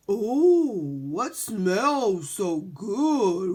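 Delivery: eager dog voice. Acted. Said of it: "asked Brody".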